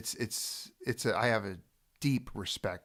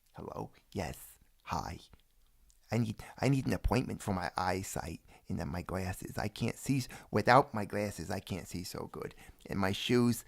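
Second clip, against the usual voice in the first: Saul Rosenberg; 2 semitones lower than usual. Acted. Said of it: "as good a Saul Rosenberg impersonation as I possibly can".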